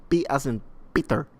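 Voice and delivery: imitated Middle Eastern accent. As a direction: insist on the spelling in a mock Middle Eastern accent. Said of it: "he's putting on a Middle Eastern accent".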